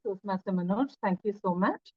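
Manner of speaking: ordinary talk, nothing marked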